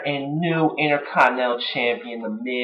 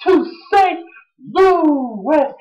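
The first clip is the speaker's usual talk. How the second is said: excited; 11 semitones higher, slower than usual. Real, not acted. Excited about Rock's return.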